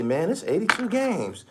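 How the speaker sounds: high, mocking falsetto voice; mock the excuse-makers way up high; mimicking players' excuses. Fan imitating cruising players making excuses, high mocking voice. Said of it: "they gonna say".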